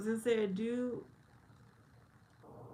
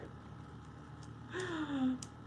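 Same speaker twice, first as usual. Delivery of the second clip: long audible gasp; 7 semitones higher, 6 dB quieter than usual. Real, not acted. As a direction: draw in a breath. Reacts to chat message.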